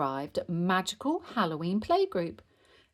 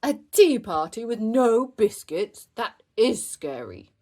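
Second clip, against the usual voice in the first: mock horror; 5 semitones higher, 8 dB louder than usual. A narrator's reading. Father playing along, mock horror.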